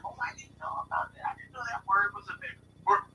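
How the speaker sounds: put-on high, breathy innocent child voice; child explaining to the teacher, high-pitched; innocent kid. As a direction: plead innocence like a little kid. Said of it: "I'm like".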